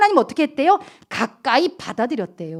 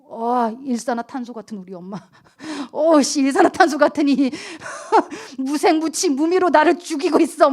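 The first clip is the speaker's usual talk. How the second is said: laughing mock complaint. Child voiced complaining, laughing.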